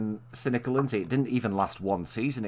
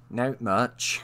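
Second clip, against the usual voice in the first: put-on Bristolian accent. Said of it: "supposed to be Lucy's accent".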